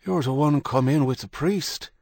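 put-on high, cracked old Irishman. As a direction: croak it like an old man. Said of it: "He spoke in a cracked voice".

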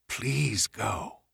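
urging the car on, pleading; willing the car to leave. Acted. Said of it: "with a little chivying gesture".

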